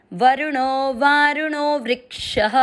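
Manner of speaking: slow chanted recitation of the verse; measured devotional recitation. Acted. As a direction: intone the line slowly.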